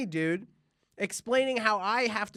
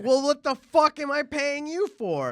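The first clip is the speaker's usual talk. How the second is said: high, loud exasperated outburst; loud, high indignant complaint; exasperated retort; 7 semitones higher, 6 dB louder than usual. Retold or imitated. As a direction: blow up at the useless lawyer. Angry retort to lawyer.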